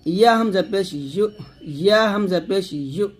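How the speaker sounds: "ইউ" spelt out, ending in a firm push; firm pushed syllable. Shown as a demonstration. Teacher spelling out letters for learners, firm pushed "ইউ". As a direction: push hard on the closing "ইউ". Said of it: "ধাক্কা দিয়ে পড়তে হবে শক্ত করে".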